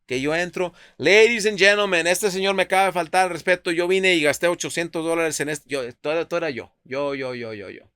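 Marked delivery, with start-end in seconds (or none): 1.0-5.7 loud, higher announcing to the whole room; public announcement. Retold or imitated. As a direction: call out to the restaurant like a host. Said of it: "Yo nomás estaba anunciándoles". (anunciando a gritos a todo el restaurante)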